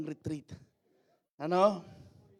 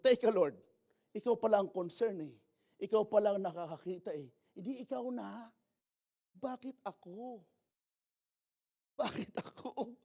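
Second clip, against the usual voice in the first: Moses objecting. Pretend. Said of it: "Di sinabi ni Moses".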